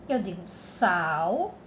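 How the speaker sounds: ordinary talk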